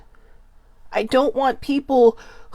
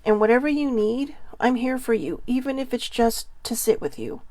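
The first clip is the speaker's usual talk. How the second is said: gentle reassurance; 3 dB quieter than usual. Pretend. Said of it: "but tell them".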